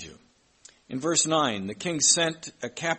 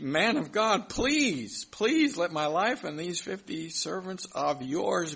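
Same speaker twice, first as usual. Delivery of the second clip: pleading; 5 semitones higher, slower than usual. Retold or imitated. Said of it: "but pleaded with him".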